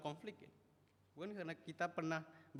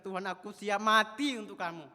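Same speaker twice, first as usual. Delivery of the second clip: loud, proud vow to die; bold vow; 6 semitones higher, 15 dB louder than usual. Acted. Peter promising the Lord he is ready to die, loud. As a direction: declare it with puffed-up courage. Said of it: "dia berkata".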